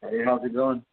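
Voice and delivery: phone line with heavy echo; echo chamber. Real, not acted. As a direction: voice ringing in an echoey room. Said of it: "It sounds like you're in an echo chamber".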